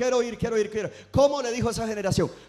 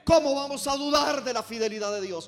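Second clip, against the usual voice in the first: emphatic preaching in raised pitch; prédica enfática; 3 semitones higher than usual. Real, not acted. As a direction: drive each contrast home to the congregation. Preaches at full force. (predicando con énfasis y convicción)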